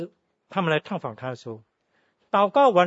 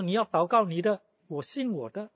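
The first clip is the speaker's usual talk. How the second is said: arrogant dismissal; 5 semitones higher than usual. Retold or imitated. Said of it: "就是很嚣张的".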